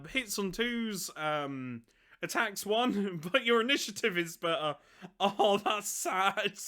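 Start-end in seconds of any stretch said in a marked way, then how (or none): 5.2-6.6 mock sadness. Mock pity over weak stats.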